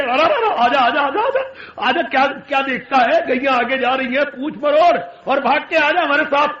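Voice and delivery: put-on young boy beckoning his pal to come play; eager child shouting come here; calling a friend. Child Krishna calls his friend.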